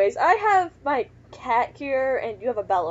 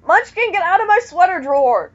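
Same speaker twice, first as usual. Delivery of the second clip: loud, raised scolding; scolding the cat; 5 semitones higher, 7 dB louder than usual. Real, not acted. Owner to cat in sweater drawer, loud scolding. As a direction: call out sharply at a misbehaving pet.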